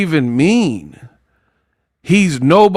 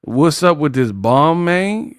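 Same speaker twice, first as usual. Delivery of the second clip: Terrence Howard impression. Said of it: "Terrence Howard movie".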